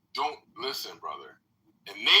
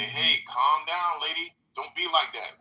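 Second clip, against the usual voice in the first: calm but firm; 2 semitones higher, 3 dB louder, slower than usual. Pretend. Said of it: "to say".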